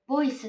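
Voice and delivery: ボイス with a Japanese b and final su; Japanese-style ボイス; katakana pronunciation. Shown as a demonstration. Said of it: "って言ってしまわない".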